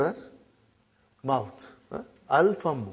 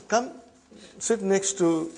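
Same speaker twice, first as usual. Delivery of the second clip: normal talking voice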